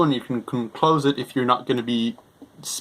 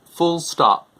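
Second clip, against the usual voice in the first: dictating; 3 semitones higher than usual. Shown as a demonstration. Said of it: "if we click on the microphone".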